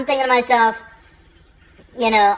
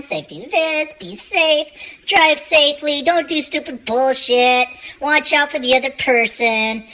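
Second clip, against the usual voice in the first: safety nag; 6 semitones higher than usual. Retold or imitated. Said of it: "I'm the safety guy".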